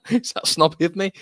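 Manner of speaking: high, posh mock-snob voice; mock snobby. Streamer teasing himself over whiskey, mock snobby. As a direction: put on a snooty toff for a laugh.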